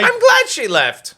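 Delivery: slow high mock sneer. Mock scolding continued.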